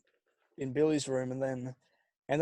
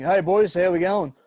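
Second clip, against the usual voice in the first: cheery greeting; 4 semitones higher, 7 dB louder than usual. Retold or imitated. Retold cheery morning greeting.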